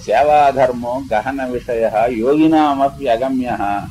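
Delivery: slow, measured recitation of "సేవాధర్మో గహన విషయ"; quoting the verse in a slow recitation; recited verse. Retold or imitated. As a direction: intone Bhartrhari's Sanskrit line slowly. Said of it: "కనుకనే భర్తృహరి అన్నాడు".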